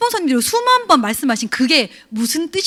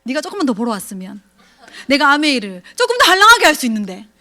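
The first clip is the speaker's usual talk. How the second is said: resentful complaint; 4 dB louder than usual. Retold or imitated. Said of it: "남편한테 원망하는 거지".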